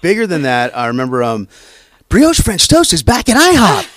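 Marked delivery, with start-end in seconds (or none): 2.1-3.9 big, bright announcer read, pitched way up and louder; high-energy commercial announcer. Shown as a demonstration. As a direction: sell the French toast like a hyped TV spot. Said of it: "'cause I'd never done that voice before".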